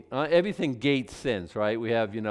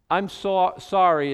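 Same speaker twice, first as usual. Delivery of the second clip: grudging sorry; 6 semitones higher, 6 dB louder, slower than usual. Retold or imitated. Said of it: "kind of an incomplete".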